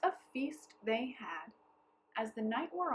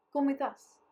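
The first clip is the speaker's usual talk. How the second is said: eager townspeople; 5 semitones higher, 9 dB louder than usual. A narrator's reading. Townspeople voiced.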